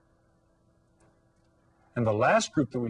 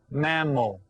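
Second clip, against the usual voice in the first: "mammal" slowly in two beats; syllable by syllable. Shown as a demonstration. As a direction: clap out "mammal" as mam-mal. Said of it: "clap out the word as you say it".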